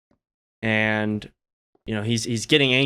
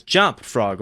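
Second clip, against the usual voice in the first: a firmer, louder order to the frog; telling a joke, the scientist orders the frog louder; louder command; 4 dB louder than usual. Retold or imitated. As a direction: raise your voice at the frog a bit. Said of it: "louder this time".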